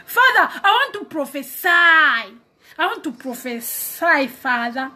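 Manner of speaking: eager pleading. Acted. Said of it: "Then you'll be like".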